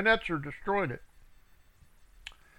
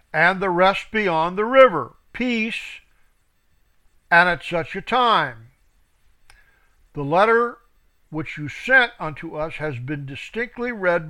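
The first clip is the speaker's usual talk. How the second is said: scripture reading; 3 dB louder than usual. Acted. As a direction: read it out like a preacher. Reads scripture aloud.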